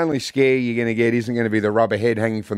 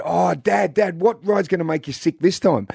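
put-on excited kids; 6 semitones higher than usual. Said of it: "the kids were very excited 'cause they said".

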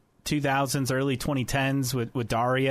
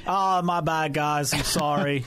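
put-on Will Power's Australian accent. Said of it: "that's a great accent".

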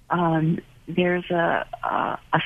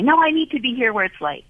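pleading return; 5 semitones higher, faster than usual. Retold or imitated. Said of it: "come back and say".

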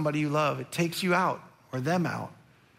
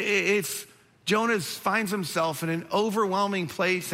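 normal talking voice

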